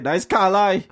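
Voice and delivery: Trinidadian "Carlisle", ending open without the final L; punchy Trinidadian "Carlisle", said Car-lie; Trinidadian pronunciation. Shown as a demonstration. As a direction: say "Carlisle" the Trinidadian way, lifted and lively. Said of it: "But in Trinidad, it's like".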